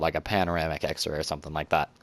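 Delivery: whispered aside. Real, not acted. Aside while describing the x-ray.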